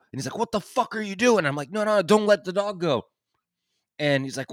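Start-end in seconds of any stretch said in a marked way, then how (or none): 0.4-1.5 high-pitched imitation of an irate neighbour; mock angry demand. Neighbour with pit bull challenges the diggers, mock angry. 1.7-3.0 high-pitched mock pleading; retold alarmed plea. Digger begs neighbour to hold the dog back, mock alarmed.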